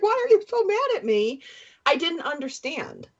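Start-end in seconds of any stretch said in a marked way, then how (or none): 0.0-1.4 high, genuinely bewildered ask; sincere puzzled question. Retold or imitated. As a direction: ask it high and open, not screaming back. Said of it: "asking the question".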